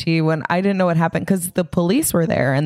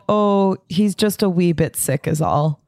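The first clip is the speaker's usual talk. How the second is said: put-on Scottish accent. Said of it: "But, like, in a Scottish accent".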